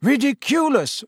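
high, ringing class chorus. A narrator's reading. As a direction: sing it out together like pupils. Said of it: "said the class together".

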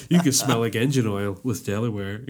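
understated mock commercial read; lightly hammed-up aftershave pitch; advert voice. Selling a bad men's aftershave, mock advert voice. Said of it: "that's my advert voice".

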